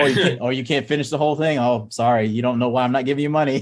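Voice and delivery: mock parent teasing. A dad mock-teasing his kids who skipped the reading, lightly voiced. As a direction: play the smug dad, half-joking.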